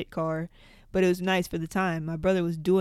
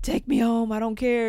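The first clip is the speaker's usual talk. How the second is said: higher, louder, pleading "Take me home"; stoned kid insisting to his brother, higher and louder; mock insistent whine; 5 semitones higher, 7 dB louder than usual.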